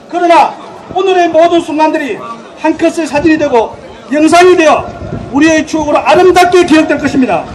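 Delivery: earnest ceremonial address to alumni; formal closing speech. Acted. Closing speech at alumni sports day.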